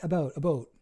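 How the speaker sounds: "About" tried twice, sliding to "a boat"; testing Canadian "about". Shown as a demonstration. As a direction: try out about with a long O, "a boat". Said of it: "do I say it like that".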